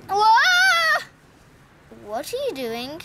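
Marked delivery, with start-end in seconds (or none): 0.1-1.0 sudden high startled whoa; surprised whoa. Pretend. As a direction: yelp it out in surprise. Toy falls over unexpectedly.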